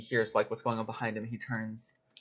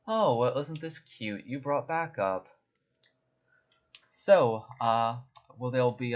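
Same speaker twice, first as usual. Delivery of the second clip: sneering tiefling; 3 semitones higher, 5 dB louder, slower than usual. Acted. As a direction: taunt them like a smug thug. DM voices sneering tiefling thug.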